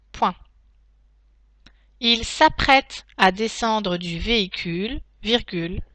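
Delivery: steady reread with spoken punctuation; dictation reread. Shown as a demonstration. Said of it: "Je relis la dictée".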